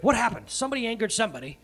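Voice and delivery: high, quick voice of alarmed sailors; mock alarm. Superstitious sailors in a storm, mildly alarmed. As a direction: lightly act out a panicked demand.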